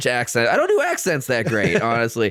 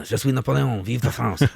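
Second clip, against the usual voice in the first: put-on lightly done French accent as Napoleon; 3 semitones lower than usual. Host showing he can do French, lightly accented. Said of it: "I can do French".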